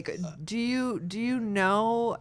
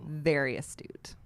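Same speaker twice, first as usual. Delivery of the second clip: whispered; 6 semitones lower, 7 dB quieter than usual. Pretend. Mock-wise whispered compliment.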